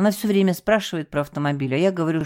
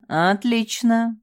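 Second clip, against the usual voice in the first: slow, stretched-out "Отлично"; a long menacing drawl; drawn out; 7 semitones higher, much slower than usual. A narrator's reading. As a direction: drag the word out ominously. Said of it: "протянула Элиза".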